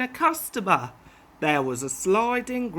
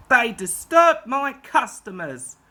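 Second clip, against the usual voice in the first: fuming; 4 semitones higher, 5 dB louder than usual. Acted. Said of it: "he fumed".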